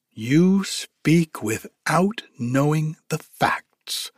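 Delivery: slow, high, huffy beetle; grumpy beetle. Acted. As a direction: drag it out, offended. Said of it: "replied the beetle".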